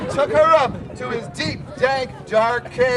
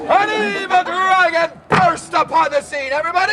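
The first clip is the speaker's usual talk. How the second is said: dramatic announcing; 5 semitones higher, 3 dB louder than usual. Acted. Dragon entrance announced loudly.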